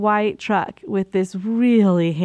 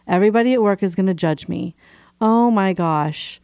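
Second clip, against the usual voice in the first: self-blaming panic. Retold or imitated. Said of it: "I had a choice to think".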